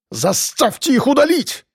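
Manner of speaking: high, shrill shout; pompous man screaming to have the video deleted. A narrator's reading. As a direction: yell it at the police chief. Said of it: "закричал Быков".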